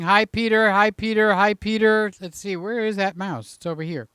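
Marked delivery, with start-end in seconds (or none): 0.0-2.1 louder, eager repeated greeting; viewer's greeting. Retold or imitated. Host reads a viewer's eager hello aloud, louder. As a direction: chirp the greeting over and over. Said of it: "He's going".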